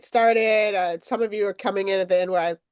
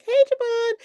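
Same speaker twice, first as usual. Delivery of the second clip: ditzy attendee impression. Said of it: "that's my impersonation of anybody".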